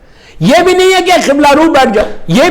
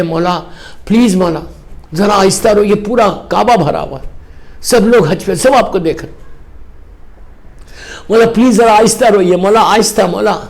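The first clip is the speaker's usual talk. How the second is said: low-pitched, subdued pleading; gentle entreaty; 7 semitones lower, 4 dB quieter than usual. Retold or imitated. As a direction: voice a follower respectfully begging the imam. Followers gently beg Imam to hush. (ادب بھری دھیمی منت)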